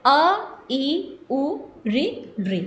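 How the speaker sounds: short separate vowels, evenly spaced. Shown as a demonstration. Teacher listing the five short vowels, short and separate. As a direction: recite each short vowel on its own beat. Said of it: "इनको बोलने में एक मात्रा का समय लग रहा है".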